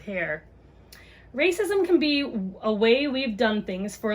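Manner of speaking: gentle picture-book read-aloud; reading to children. Acted. Mom reads a book on race to viewers, storytime voice.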